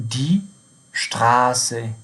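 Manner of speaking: شتراسه slowly, with a sharp SS; double S sound. Shown as a demonstration. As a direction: say دی شتراسه as German "die Straße".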